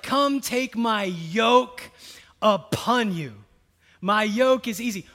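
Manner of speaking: mock yelling Jesus. Pastor parodies a Jesus shouting at weary disciples, loud mock yell. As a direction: bellow the invitation, hammed up. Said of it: "I don't imagine Jesus yelling those lines".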